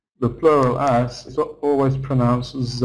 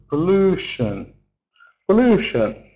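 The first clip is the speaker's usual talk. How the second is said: "pollution" with a short "po" and a long, strong "lu"; stress on second syllable; 4 semitones higher than usual. Shown as a demonstration. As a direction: punch the LU in "pollution". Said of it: "second syllable is long because it's stressed".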